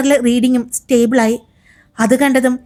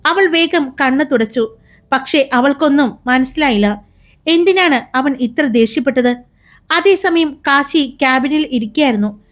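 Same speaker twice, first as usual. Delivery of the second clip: brisk, expressive storyteller voice; story narration. A narrator's reading. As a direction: read it like an audio drama narrator. (കഥ പറയുന്ന ശൈലി)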